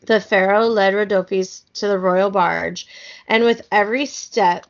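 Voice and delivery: measured, clearly phrased storybook reading; story narration. A narrator's reading. Reading an Egyptian kids' book aloud, storybook narration. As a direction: read the tale aloud with care.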